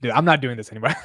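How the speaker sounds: normal talking voice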